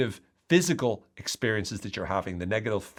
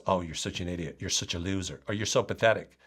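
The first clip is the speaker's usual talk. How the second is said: harsh inner critic; 4 semitones lower than usual. Shown as a demonstration. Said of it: "change the tone of your voice".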